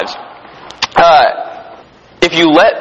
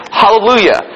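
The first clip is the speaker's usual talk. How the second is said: higher-pitched, restrained exclamation of praise; mild shout; 6 semitones higher than usual. Acted. Preacher voices the multitude's second cry, mild shouted praise. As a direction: lift the voice in praise. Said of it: "they shouted again".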